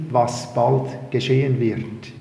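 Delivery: weight placed on the word "bald"; "bald" picked out, then a falling end; stress on BALD. Real, not acted. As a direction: lean on "bald", let the rest fall away. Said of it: "mit Betonung auf bald".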